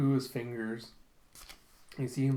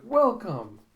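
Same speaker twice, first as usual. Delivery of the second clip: high, loud singing-out welcome; exuberant greeting; 9 semitones higher, 8 dB louder than usual. Retold or imitated. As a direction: hail a customer as a bubbly hostess. Acted hostess greeting a customer.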